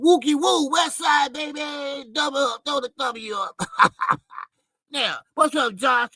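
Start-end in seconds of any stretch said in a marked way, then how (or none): 0.0-3.9 hyped shout-out. Real, not acted. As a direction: hype up the chat. Shout-out to a viewer.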